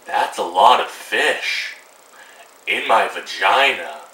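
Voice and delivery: slow, dragged mock-innocent line; a hint of naive Anastasia; lightly voiced slow Anastasia; Anastasia impression. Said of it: "my Anastasia impression".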